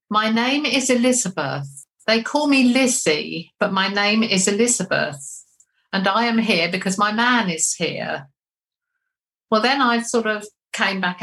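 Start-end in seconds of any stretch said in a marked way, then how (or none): 0.1-8.3 measured, deliberate spirit speaking through a medium; lightly voiced spirit announcing herself, unhurried; channelled Elizabeth. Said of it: "I remember saying".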